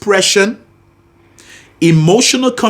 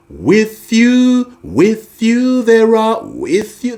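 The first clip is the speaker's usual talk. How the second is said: vocal fry; 6 semitones higher, slower than usual. Shown as a demonstration. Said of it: "I used vocal fry".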